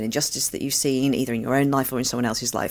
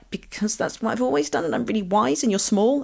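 smug parent; 8 semitones higher than usual. Retold or imitated. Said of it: "And you're like".

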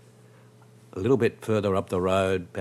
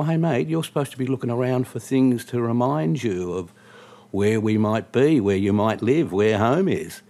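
higher, louder, emphatic reminder; exasperated prodding; 4 semitones higher, 4 dB louder than usual. Retold or imitated. Cab driver to a staring drunk passenger, exasperated. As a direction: spell it out with rising exasperation.

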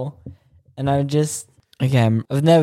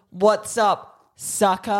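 cheeky taunt; 6 semitones higher, much slower than usual. Pretend. Imagined greeting to the Queen.

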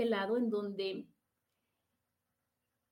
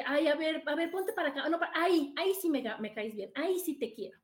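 mock fussy partner; 5 semitones higher than usual. Voicing a partner who demands change.

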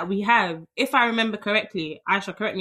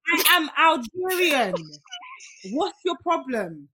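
mock French accent; 4 semitones higher than usual. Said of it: "I was just practicing my French accent".

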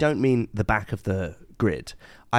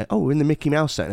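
chirpy realisation; 6 semitones higher, 4 dB louder, faster than usual. Retold or imitated. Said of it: "And you".

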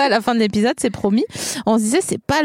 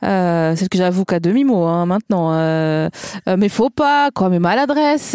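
put-on Alsatian accent; 3 semitones lower than usual. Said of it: "les paroles d'une chanson avec l'accent alsacien".

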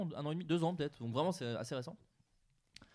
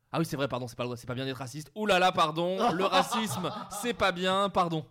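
over-the-top apology; 3 semitones higher, 8 dB louder than usual. Retold or imitated. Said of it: "je comprends pas le ton de la phrase".

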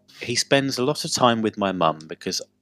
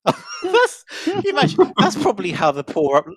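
laughing through the words, higher and louder; giggling it out between breaths; 9 semitones higher, 8 dB louder than usual. Real, not acted. Telling co-hosts about the parrot, laughing through it.

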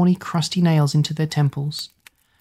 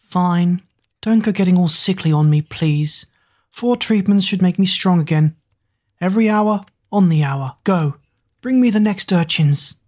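Witch Queen; 2 semitones higher than usual. Acted. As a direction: bark orders like a queen.

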